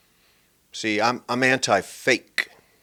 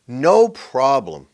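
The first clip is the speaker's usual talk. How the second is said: mocking stock reply; 3 semitones higher, 6 dB louder, much slower than usual.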